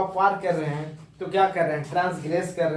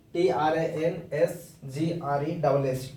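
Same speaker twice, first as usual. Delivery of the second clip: slow spelling; much slower than usual. Shown as a demonstration. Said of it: "spelling the word slowly".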